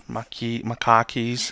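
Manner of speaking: light Boston accent, dropped r in car. Shown as a demonstration. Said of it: "It sounds Boston".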